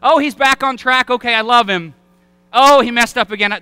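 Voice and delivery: lightly voiced daisy-plucking lover, swinging up and down; mock a fickle sweetheart plucking petals; fickle petal-plucking God. Preacher mocking a fickle God who loves, loves not. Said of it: "this impression of God that he stands up with that proverbial flower".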